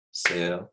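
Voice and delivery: Syllable split into claps; clapped syllables. Shown as a demonstration. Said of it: "How many times did I clap?".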